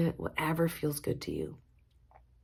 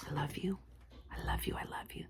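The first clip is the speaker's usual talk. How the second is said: softer with each repeat down to a whisper; fading whisper; 13 dB quieter, faster than usual. Real, not acted. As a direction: let it fade to nothing. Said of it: "fading closing words".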